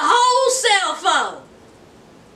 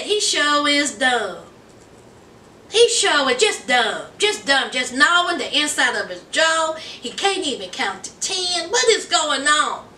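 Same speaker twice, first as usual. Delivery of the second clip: cousin's low mocking voice; 5 semitones lower than usual. Cousin mocking the fiancé to Anissa, lower and scornful. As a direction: voice the cousin looking down on him.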